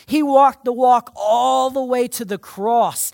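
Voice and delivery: rising preacher's cry to the cross; preaching shout. Real, not acted. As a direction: ring out the climax of the sermon. Preaching climax.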